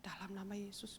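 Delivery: hushed whisper of a prayer through the door; whispered prayer at the child's door. Retold or imitated. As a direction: breathe the words so no one hears. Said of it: "saya suka tumpang tangan dari pintu".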